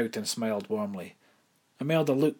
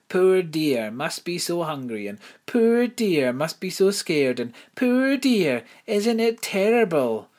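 loud, higher mock pity, slow; 9 semitones higher, 9 dB louder, slower than usual. Imelda mimics pitying social workers, loud mocking parody. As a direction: sneer it as a higher sing-song parody.

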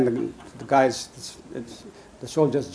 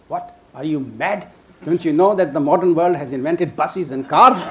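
mock disbelief, laughing, getting louder; laughing incredulous quote; 3 semitones higher, 4 dB louder than usual. Bedouins asking pilgrims if they're mad, laughing.

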